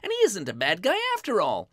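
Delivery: put-on high, eager boy voice; Lad, excited. Lad tells his mother about the gift, high and excited. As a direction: burst out with good news to mother.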